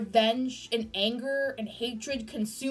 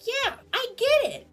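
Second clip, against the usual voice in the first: understanding; 10 semitones higher than usual. Retold or imitated. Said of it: "you're like".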